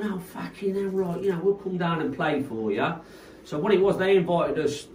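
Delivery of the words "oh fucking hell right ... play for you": Retold or imitated. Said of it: "this little Cockney geezer".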